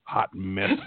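a hint of a folksy southern lineman holding court; Whitworth impression. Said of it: "an impersonation of Whitworth".

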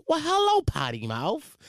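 high squeal falling to normal pitch; imitated sound drop. Host standing in for missing drops, imitated greeting. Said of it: "Usually that would be the".

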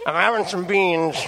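lightly voiced rambling dad; hint of an imitated father on the phone; mock dad voice, halting; Dean's dad. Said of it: "Then Dean's dad patches in".

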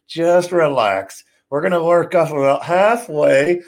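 hushed in-ring talk through teeth. Shown as a demonstration. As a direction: talk without moving your lips. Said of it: "Talk like this".

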